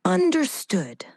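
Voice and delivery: slow dramatic whisper. Acted. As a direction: breathe the word out.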